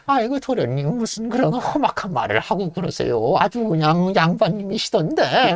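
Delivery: lightly voiced anxious butler; old servant pleading. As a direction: soothe the young master nervously. Servant placating young master.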